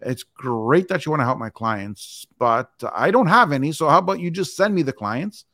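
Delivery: mock helpful sarcasm; sarcastic comeback. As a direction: needle him with mock generosity. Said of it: "I go".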